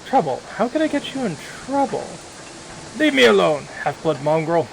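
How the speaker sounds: suspicious orc dismissing the half-blood; gruff hostile orc. Acted. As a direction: push the stranger away as a wary orc. Hostile orc refuses to talk.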